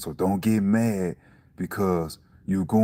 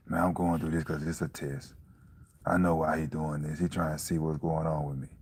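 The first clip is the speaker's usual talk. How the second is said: softer, understated self-talk; calm inner thought; 3 semitones lower, 5 dB quieter than usual. Acted. Person reasoning privately about being tested, calm and low-key. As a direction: think it through quietly to yourself.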